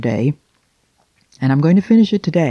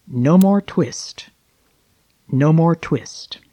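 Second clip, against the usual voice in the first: mumbled in sleep; much slower than usual. Acted. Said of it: "he mumbled".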